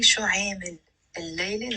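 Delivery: no break between عامل and الليلة, the l carried over; words linked by liaison. Shown as a demonstration. Teacher showing learners the liaison, words linked. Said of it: "notice how I'm saying it with a liaison".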